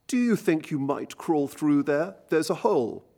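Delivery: a hint of a prim, overly courteous officer; polite officer. Poem narrator voicing the officer asking the soldier to crawl, a hint of finicking politeness. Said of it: "the politest voice, a finicking accent".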